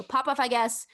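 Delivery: lightly Southern "pop off, I guess"; Southern accent. Shown as a demonstration. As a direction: model it in one go, Southern accent. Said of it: "with a Southern accent".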